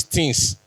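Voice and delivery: "things" said as "tins", with a plain t; hard t opening "things", no th; Benin pronunciation. Retold or imitated. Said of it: "she now says things".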